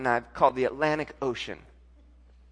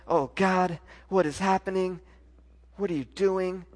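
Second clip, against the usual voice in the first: raised, insistent plea to God; re-enacted desperate praying, pressing each question; pleading prayer; 4 semitones higher than usual. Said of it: "I'm just going at it".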